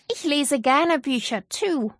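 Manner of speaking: put-on cheerful child correcting gently; Zoe's voice. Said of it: "agreed Zoe".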